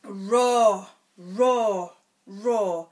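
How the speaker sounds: loud hammed-up dinosaur roar, fading. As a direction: roar like a big dinosaur for a toddler. Dinosaur roars in story.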